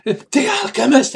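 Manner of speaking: high, loud, terrified reveal; name the threat in high-pitched alarm; panicked bandit. Acted. Bandit answers who was woken.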